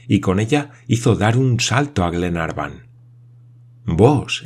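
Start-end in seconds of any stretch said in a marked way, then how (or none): 3.9-4.4 a touch of astonished outcry; exclaiming. Acted. Glenarvan to Paganel, mildly surprised exclaim. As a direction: exclaim the name, caught off guard. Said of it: "exclamó éste".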